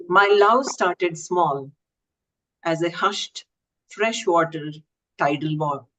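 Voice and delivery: measured verse delivery in short, separated phrases; poetry reading. Acted. Poet presenting a second poem, Cascades, poetry recital. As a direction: recite it line by line, pausing between phrases.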